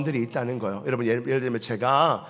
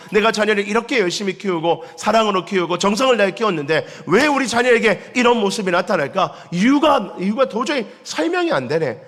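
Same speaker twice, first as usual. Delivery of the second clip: higher, louder pleading why; parent's lament; 5 semitones higher, 3 dB louder than usual. Retold or imitated. Parent baffled by a child's change, raised lament.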